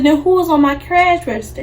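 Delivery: loud indignant question; demanding. Retold or imitated. Girl confronts coworker over missing money, loud indignant demand.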